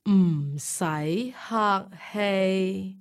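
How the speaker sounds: slow, word by word; slowly. Shown as a demonstration. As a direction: split the phrase apart slowly. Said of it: "Can we hear that a bit more slowly".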